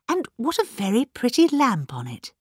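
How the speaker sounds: polite, admiring lift in pitch. A narrator's reading. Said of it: "said Miss Marple politely".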